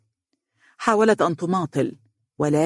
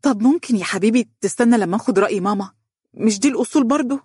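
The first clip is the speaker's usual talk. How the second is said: higher, quicker, sweetly coaxing; forced cheerfulness; 6 semitones higher, faster than usual. Acted. Donia stalling her fiancé with forced sweetness. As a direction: paint on a happy tone to buy time. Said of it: "تحاول رسم السعادة على وجهها".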